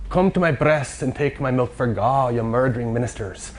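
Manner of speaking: lightly attempted Scottish accent. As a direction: read it in your best amateur Scottish accent. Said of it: "in my best Scottish accent".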